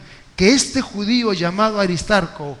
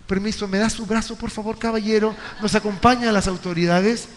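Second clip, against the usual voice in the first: softer, sarcastically courteous request; mock politeness; 3 dB quieter than usual. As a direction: pretend the mob was gentle and well-mannered. Ironic polite mob arrest.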